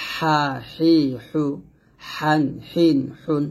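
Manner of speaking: slow "হা, হি, হু" squeezed from mid-throat; drawn-out, constricted throaty "হা"; pressed thin "হা". Shown as a demonstration. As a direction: press each h in "হান, হিন, হুন". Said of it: "চাপ দিয়ে চিকন করে উচ্চারণ".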